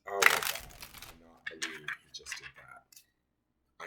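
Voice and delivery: slow, exasperated disbelief; angry disbelief. Real, not acted. Owner reacts to dog chewing new bed, angry disbelief. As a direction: draw it out, really appalled.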